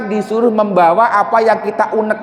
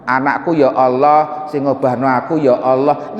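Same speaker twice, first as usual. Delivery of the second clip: softly inward prayer; 6 semitones lower than usual. Retold or imitated. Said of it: "Dia marah tapi ngerasa".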